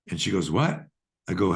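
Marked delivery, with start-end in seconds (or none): 0.5-0.9 retold baffled "what", pitched up at the end; puzzled surprise. Client stunned by the therapist's odd question, puzzled surprise. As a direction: ask it as if you can't have heard right.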